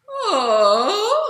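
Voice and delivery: loud, high vocal sob glide; sobbing "oh". Shown as a demonstration. Voice teacher demonstrating the sob quality, sobbing loudly. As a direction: moan out a big, breathy-flowing sob. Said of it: "one of the most important ones is sob".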